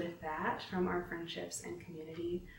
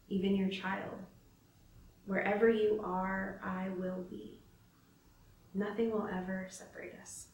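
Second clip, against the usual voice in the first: scripture reading. Shown as a demonstration. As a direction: read each promise gently to the listener, letting it land. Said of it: "I want you to hear it in my voice".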